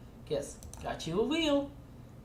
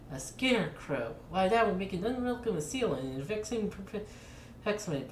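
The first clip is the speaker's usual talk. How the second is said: lightly voiced prim shopkeeper, stiff and archaic; a hint of a fussy antique dealer greeting a customer; formal fly shopkeeper.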